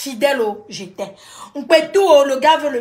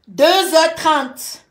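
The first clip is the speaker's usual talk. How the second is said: dragged out, heavy suspense; slow dramatic time reveal; 2 semitones higher, 4 dB louder, much slower than usual. Real, not acted. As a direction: draw out each word for suspense.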